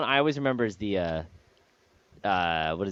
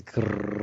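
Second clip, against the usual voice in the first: mock drum roll growl; 3 semitones lower than usual. Shown as a demonstration. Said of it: "drum roll, please".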